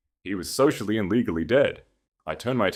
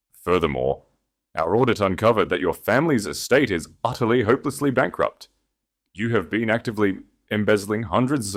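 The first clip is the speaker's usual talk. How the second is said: louder, projected accusation to the room; 4 dB louder than usual. Acted. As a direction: charge him before everyone. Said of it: "Thomas continued flawlessly".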